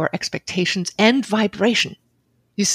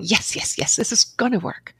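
fired up. Retold or imitated. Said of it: "all fired up and I'm going".

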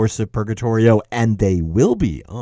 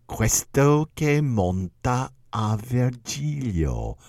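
snide; much slower than usual. Retold or imitated. Commentator Castelvetro mocking Virgil's reward, slow snide sneer. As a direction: let the contempt drip, slowly. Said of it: "in a very snide way".

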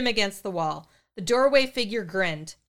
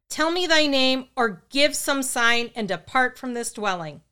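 loud, higher demand for the name; booming command; 4 semitones higher, 4 dB louder than usual. Acted. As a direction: boom it at the spirit. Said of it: "in a loud, booming voice".

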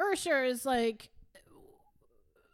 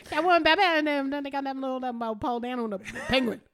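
mock Cajun auctioneer babble; 5 dB louder than usual. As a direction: run the words together like a Cajun auctioneer. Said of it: "Cajun auctioneer".

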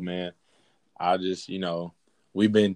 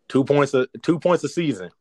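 incredulous; 6 semitones higher, 4 dB louder than usual. Real, not acted. Incredulous self-mockery.

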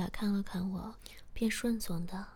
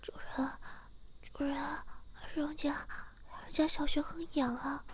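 distressed pleading character; 7 semitones higher than usual. A narrator's reading. Servant complains to the master, distressed high-pitched pleading. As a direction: plead in a high voice, breaking it into short bursts.

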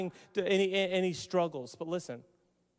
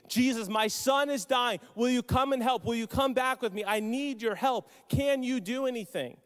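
mildly raised, urgent begging; desperate pleading; 3 semitones higher than usual. Retold or imitated. A father begging Jesus to heal his dying son, desperate pleading. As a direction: plead for help in a string of questions. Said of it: "he begins to beg".

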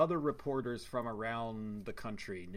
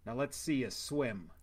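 put-on stilted old movie melodrama. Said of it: "nineteen fifties dialogue".

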